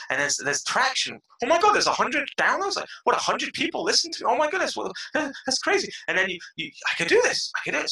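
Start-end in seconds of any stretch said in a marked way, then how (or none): 1.4-5.9 high-pitched, incredulous excitement; retold amazement. New podcaster seeing first hundred downloads, acted amazement. 6.9-7.9 high-pitched dawning confidence; retold excited realization. New podcaster realizing he can do it, acted excitement. Reliving growing belief in himself.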